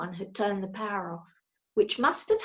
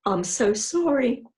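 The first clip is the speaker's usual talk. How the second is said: sniffled apology; 5 dB louder than usual. A narrator's reading. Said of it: "he sniffed".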